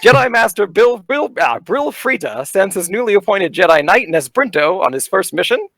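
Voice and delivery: booming carnival barker narration. Acted. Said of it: "I'm gonna put on my best, like, uh, carnival barker voice here".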